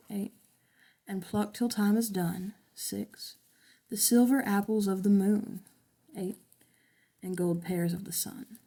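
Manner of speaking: slow scanned reading, each beat marked; counting syllables. Shown as a demonstration. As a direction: tap out the meter as you read. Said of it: "be eight".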